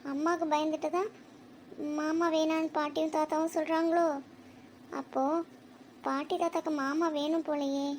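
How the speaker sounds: softly puzzling it out, with pauses; quiet musing. Acted. Child wondering about the grandparents and uncle, quiet musing. Child muses over elders' quarrel.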